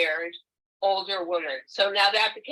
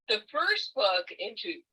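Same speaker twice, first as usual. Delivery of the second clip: hiccups; 3 semitones higher than usual. Real, not acted. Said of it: "pardon me, I'm hiccuping".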